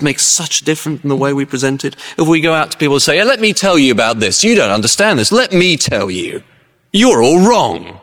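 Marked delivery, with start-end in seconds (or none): 3.2-8.0 raised, hammered mock scolding; overbearing lecturing. Preacher telling people off, mock arrogant. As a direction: lay down the law, slowing to the end.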